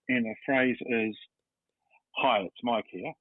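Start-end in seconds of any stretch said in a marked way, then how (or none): 2.2-3.1 rough, croaky voice; a hoarse, tired voice; jock voice. Shown as a demonstration. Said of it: "excuse the voice".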